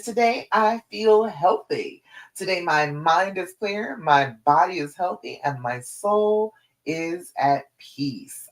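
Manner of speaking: slow, deliberate affirmation said with authority; with conviction. Shown as a demonstration. Coach modelling today's affirmation for clients, with conviction. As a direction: say it like you mean it. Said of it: "Say it with authority".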